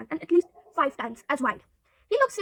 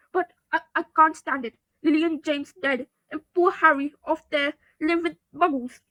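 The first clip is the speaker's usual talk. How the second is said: tearful; 3 semitones higher, 5 dB louder than usual. Acted. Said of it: "sobbed Hagrid".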